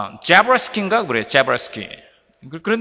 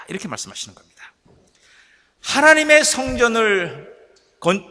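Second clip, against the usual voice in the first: ordinary talk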